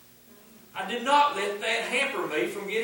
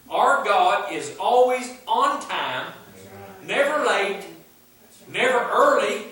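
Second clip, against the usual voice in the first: preaching loud; 6 dB louder than usual. Real, not acted. Preacher proclaiming God is on time.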